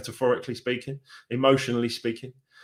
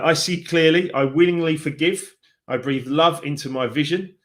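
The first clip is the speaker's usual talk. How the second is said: affirmation reading. Acted. Reads out an affirmation card.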